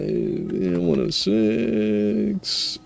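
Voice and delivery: excited counting. Real, not acted. Counting up score numbers.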